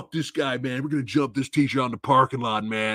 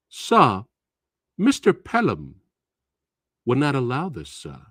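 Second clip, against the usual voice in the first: overly polite student. Acted. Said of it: "this is how they talk to you".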